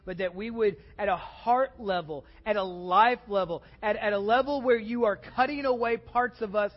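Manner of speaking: public prayer in measured, separated phrases, swelling at the pleas; earnest prayer. Real, not acted. Pastor asking the Father for repentance, earnest prayer. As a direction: pray aloud for the congregation, pausing between petitions.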